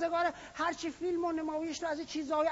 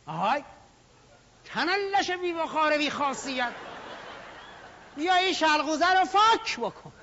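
bossy master to servant. Pretend. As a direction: play the lordly master barking for his servant. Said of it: "فرض کن که من الان نوکر جناب عالی".

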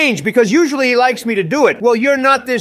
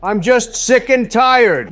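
put-on sleepy grumpy old man; slower than usual. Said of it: "sleepy and grumpy Biden".

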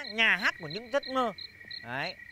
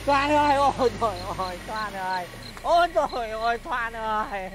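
wailing lament; 2 semitones lower than usual. Acted. Wailing for lost love.

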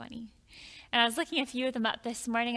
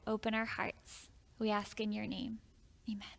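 gentle spoken prayer to God. Real, not acted. Pastor prays before reading.

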